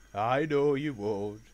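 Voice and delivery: slow, loud, pleased reply; chuckling assurance. Acted. Fat Controller answers the Duke's promise, slow and pleased. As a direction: show fond confidence, unhurried. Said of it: "chuckled the Fat Controller".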